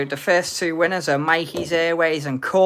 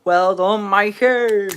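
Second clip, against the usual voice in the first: excited congratulations; 4 semitones higher, 8 dB louder than usual. Real, not acted. Congratulating the bingo winner.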